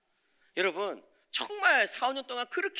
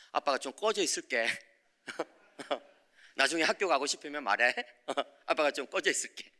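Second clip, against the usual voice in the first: humble father laughing; 2 semitones lower than usual. Retold or imitated. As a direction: say it meekly with a chuckle. Father humbly answering son.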